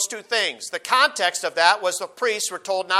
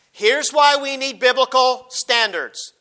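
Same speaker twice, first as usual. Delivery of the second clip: "biblical standards" hit hard, slow and higher; emphasis on biblical standards; 4 semitones higher, 4 dB louder, slower than usual. Real, not acted. Preacher drives his point home to the congregation, stressing "biblical standards". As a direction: punch out "biblical standards" deliberately. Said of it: "I'm emphasizing biblical standards".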